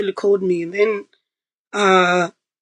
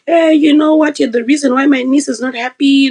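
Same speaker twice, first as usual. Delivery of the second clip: mock yell at the top of her voice; retold scream; 3 semitones higher, 4 dB louder than usual. Stepmom yelling down the phone at her, mock loud yell. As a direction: raise it like the furious stepmom on the phone. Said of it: "she's screaming at the top of her voice".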